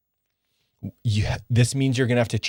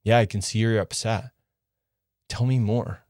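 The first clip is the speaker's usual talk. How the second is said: reassuring. Shown as a demonstration. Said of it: "look into her eyes and be like".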